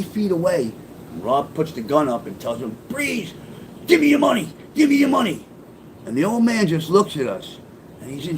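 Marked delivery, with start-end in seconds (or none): 2.9-5.4 retold robbery shout. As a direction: yell it like you're holding the gun on him. Partner pulls gun, robbery.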